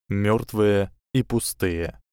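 ordinary delivery, nothing marked

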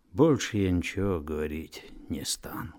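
hushed, whispery refusal; withdraw into a near whisper. A narrator's reading. Old man refuses to testify.

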